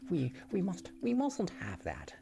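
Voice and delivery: a game master's put-on Irish lilt for a village elder; a half-hearted Irish accent. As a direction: greet the traveler in a hammy Irish brogue. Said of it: "I'm trying to do, uh, an Irish accent".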